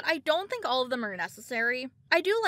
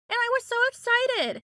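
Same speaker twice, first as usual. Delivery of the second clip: excited; 10 semitones higher, 3 dB louder than usual. Real, not acted. Gushing about the game's release.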